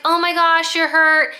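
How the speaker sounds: mock-alarmed heroine rushing to help; worried heroine.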